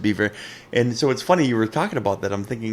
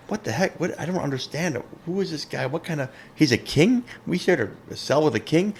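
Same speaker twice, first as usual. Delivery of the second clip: puzzled, lightly acted prisoner, pitched up; bewildered prisoner; 6 semitones higher than usual. Prisoner asks inmates about his cellmate, mildly acted bewilderment.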